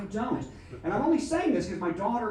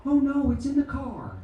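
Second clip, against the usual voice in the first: high, drawn-out imitation of a panicked wife; mock panic; 9 semitones higher than usual. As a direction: play up her alarm, slowly and high. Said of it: "my wife panicked".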